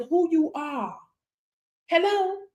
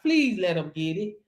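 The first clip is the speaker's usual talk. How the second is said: lower, soft little plea; mock pleading; 8 semitones lower, 3 dB quieter than usual. Preacher mocking a timid reading of God's word, pleading. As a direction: beg meekly, as if asking permission. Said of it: "He didn't say nothing about".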